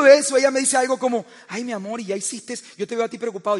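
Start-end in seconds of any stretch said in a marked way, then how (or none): 1.5-3.6 softly cooing wife, mild imitation; wife's soft soothing. Wife gently comforts her worried husband, soft cooing. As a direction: coo it gently like a caring wife.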